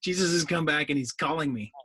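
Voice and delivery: a lightly voiced thrilled prophet; mock excited prophet. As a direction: gush a little over the call. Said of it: "he's all excited".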